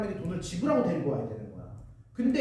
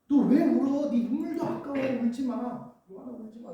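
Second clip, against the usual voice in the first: outraged friend; 4 semitones higher than usual. Retold or imitated. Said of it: "이랬을 거 아니야".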